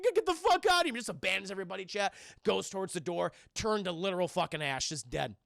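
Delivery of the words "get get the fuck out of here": high, loud shout to get out; higher, louder retold order; angry mock yell. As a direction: yell it as an acted outburst. Retelling a character blasting someone away.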